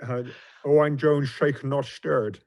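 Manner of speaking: a hint of a Scottish Connery accent, lightly done; Sean Connery impression. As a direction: drop in a self-mocking Scottish Bond line. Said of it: "pathetic Sean Connery accent".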